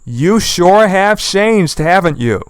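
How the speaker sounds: slow, drawn-out sarcastic voice; sarcastic aside. Retold or imitated. Viewers mocking her with sarcastic surprise. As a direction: drawl it with mock surprise. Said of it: "we are thinking".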